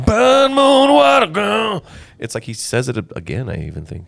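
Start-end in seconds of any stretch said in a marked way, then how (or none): 0.0-1.8 high, slow, loud drawn-out call; hammed-up high yell; mock shout. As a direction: belt it out like a weird chant. Mimicking a strange shouted phrase.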